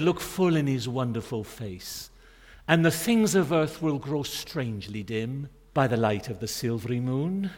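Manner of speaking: a hint of Welsh lilt carried through the quote; light Welsh accent. Preacher retells a Welsh brother's muddled prayer, lightly Welsh accented. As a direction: lightly imitate the Welsh brother still praying. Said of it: "I hope I can do the accent".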